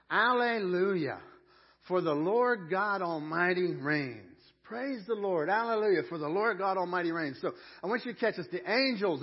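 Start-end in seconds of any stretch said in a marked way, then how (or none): 0.1-7.4 big, loud, drawn-out hallelujah; thunderous praise. Acted. Preacher reads heaven's praise to the congregation, thunderous. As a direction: proclaim it high and full-voiced. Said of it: "It's this thunderous voice".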